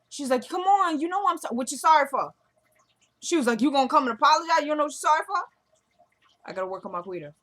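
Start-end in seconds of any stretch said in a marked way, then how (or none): 0.5-2.3 high, louder imitated quarrel; plead, then cut in with a challenge; acted-out argument. 3.6-5.4 fast, high and louder mock scolding; retold indignant challenge. Retold angry confrontation.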